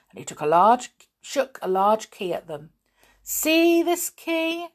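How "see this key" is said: high, very slow dangling question; taunting. A narrator's reading. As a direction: tease them with it, drawn out. Villain taunts children with key.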